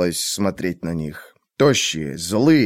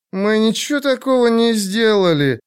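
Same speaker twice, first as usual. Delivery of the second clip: defiant declaration; 12 semitones higher than usual. Acted. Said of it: "заявила сержант Хеллиан".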